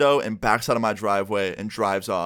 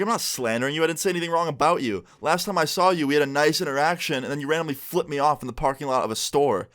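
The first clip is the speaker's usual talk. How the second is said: higher-pitched, protesting self-defense; retold indignant defense; 5 semitones higher than usual. Defending himself to his ex, retold indignant defense. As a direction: imitate an argument, pitched up.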